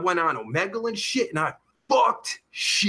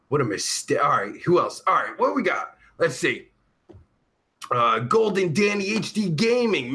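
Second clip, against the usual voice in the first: ordinary talk, nothing marked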